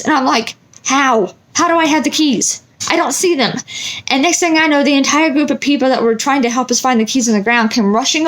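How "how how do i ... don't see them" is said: higher, baffled questioning; confused protest. Retold or imitated. Asking husband where the keys could be, higher and baffled. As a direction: sound lost and puzzled.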